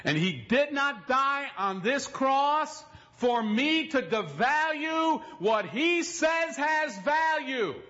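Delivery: drawn-out sermon cadence; slow preaching. Acted. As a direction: preach it slowly over the music. Slow preaching over music.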